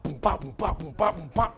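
beatbox the band kicking in; playful vocal drumbeat; imitated band beat. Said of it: "Band starts up".

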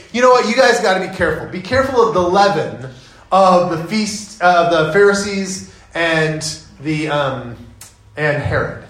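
frustrated. Retold or imitated. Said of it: "Jesus is frustrated. Jesus goes".

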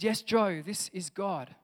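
loud reply from above; lightly voiced God calling back. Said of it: "cries back and says".

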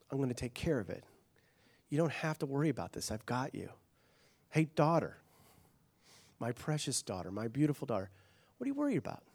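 a father soothing his frightened daughter; tender father. Acted. Father reassuring his worried daughter.

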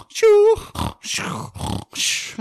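mock dog snort; imitated sniffing. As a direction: huff it out like a dog. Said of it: "he'd be like".

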